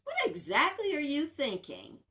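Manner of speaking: a hint of a mother catching her child out; mom's stern question. Mom questioning her child's bad thinking, lightly stern. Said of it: "you can hear my mom's voice in your head".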